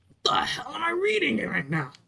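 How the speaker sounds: high-pitched, incredulous outburst; incredulous, pitch leaping up then falling; acted disbelief. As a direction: blurt it out in baffled disbelief. Acted disbelief at strange rules.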